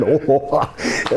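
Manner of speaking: lightly mimicked boss's laugh; mock oh-ha-ha laugh; imitated laugh. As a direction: imitate someone laughing along. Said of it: "He's just laughing".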